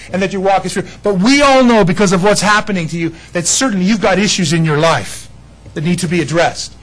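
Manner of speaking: accusing friends. Acted. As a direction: lecture Job smugly. Friends accusing Job, acted.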